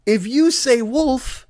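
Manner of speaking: slow, high, spelled-out reasoning; exasperated family talking down to George; patient explaining. Acted. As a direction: lay it out slowly like to a child.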